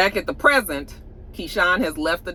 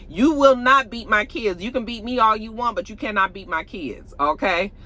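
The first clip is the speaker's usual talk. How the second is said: firm confrontation; 3 semitones higher than usual. Retold or imitated. Keyshawn confronts Derek about hurting the kids, firm. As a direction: lay down the law in an imitated mother's voice. Acted confrontation of abusive partner.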